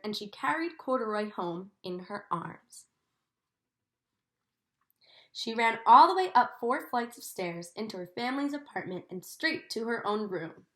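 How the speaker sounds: gentle storybook reading for a class; reading to children. A narrator's reading. Teacher reading Corduroy to her class, in a storybook voice. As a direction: read the story to the children, savouring each sight. Teacher reads picture book aloud.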